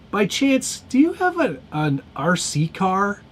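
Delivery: high, tentative ask, slowing at the end; polite high-voiced asking; acted polite inquiry. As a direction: pitch it up like a hopeful question. Acts out asking an older person.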